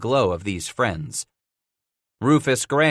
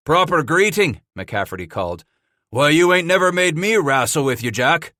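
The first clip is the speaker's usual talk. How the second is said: wry trapper; 5 semitones higher, 4 dB louder than usual. A narrator's reading. McCafferty's voiced dialogue.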